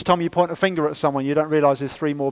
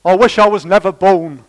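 a light hint of a sulking child, louder; sulking kid; 2 semitones higher, 9 dB louder than usual. Kid in a strop to the parent, lightly voiced sulky child. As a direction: whine it like a teenager in a strop. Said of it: "Or kids".

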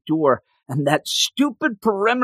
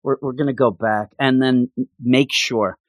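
lower, resigned and worn out; defeated; 5 semitones lower than usual. Retold or imitated. Man telling Juan they must turn back, defeated. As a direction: give up, let every word sag. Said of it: "in such a defeated deal".

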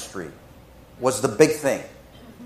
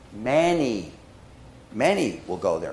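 hushed scripture; 10 semitones lower, 10 dB quieter than usual. Acted. Quoting Jesus, dropping low.

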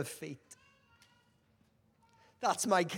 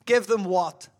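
Elisha's loud reply; 8 dB louder than usual. Acted. Elisha's answer, acted.

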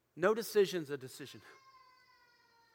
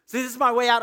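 louder, higher burst of relief; excited realization; 5 semitones higher, 7 dB louder than usual. Acted. Pilate spotting his escape from the crowd, excited and louder. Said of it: "and Pilate thought".

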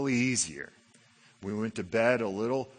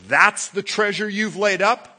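higher, louder incredulous question from God; disappointed question; 6 semitones higher, 7 dB louder than usual. Acted. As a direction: let God sound unimpressed. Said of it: "God looks down and goes".

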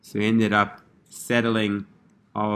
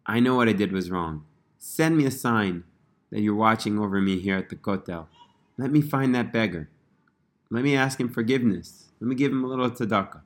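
broken pleading. Retold or imitated. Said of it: "And so broken, he comes before Hashem".

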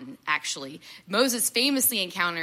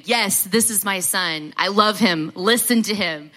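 slow, louder, lightly voiced divine proclamation; God speaking from the cloud about his son, slow louder declaration; voice from heaven; 5 dB louder than usual. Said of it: "a voice from heaven literally coming down from the cloud saying".

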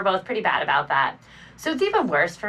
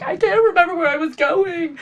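high, loud, frantic quote; panicked; 9 semitones higher, 5 dB louder than usual. Retold or imitated. Driving on the freeway, lost and panicked. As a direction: act out the panic of forgetting. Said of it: "and I was like".

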